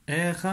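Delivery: R said alone as a sound; isolated R sound. Shown as a demonstration. Teacher to pupil, the R sound said alone. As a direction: isolate the R for the child. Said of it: "j'entends le son R".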